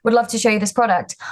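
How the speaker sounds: a light put-on American accent for a sales demo; lightly imitated American accent, upbeat pitch; fake American accent. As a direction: brightly greet a stranger in mock American. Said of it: "I had to fake an American accent".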